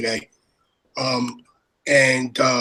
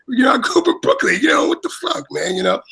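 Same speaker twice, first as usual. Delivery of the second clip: excited rant; 6 semitones higher than usual. Real, not acted. Excited rant about Brooklyn.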